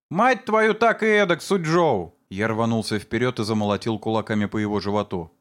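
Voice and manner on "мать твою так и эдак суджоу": high, loud furious swearing; furious curse. Acted. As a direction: hurl the curse as you lunge. Son attacks Sujou furiously. (яростная ругань с кулаками)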